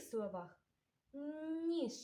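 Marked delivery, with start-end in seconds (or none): 1.7-1.9 "ніж" with a long palatalized first N; soft N highlighted. Shown as a demonstration. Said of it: "М'який приголосний звук Н".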